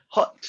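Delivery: "Hot" said for hit, Scottish vowel. Shown as a demonstration. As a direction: say "Hot" meaning hit, Scots style. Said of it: "we would say hot instead of hit".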